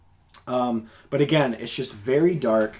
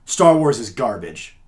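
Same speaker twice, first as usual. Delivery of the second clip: slow, emphatic pronouncement with punched opening; blunt verdict; 2 semitones lower, 5 dB louder, slower than usual. Retold or imitated. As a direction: imitate a critic laying down a flat fact. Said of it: "be careful about how you say it".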